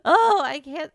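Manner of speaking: real bursting, high happy outburst; overjoyed. Real, not acted. Streamer overjoyed that the book is out, bursting with excitement. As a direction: burst out happily with a laugh, loud on the exclamations.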